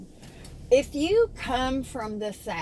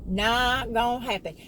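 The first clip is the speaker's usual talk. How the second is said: Southern accent; 2 semitones higher than usual. Real, not acted. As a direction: let the Southern accent come out. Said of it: "I sound like some kind of little southern".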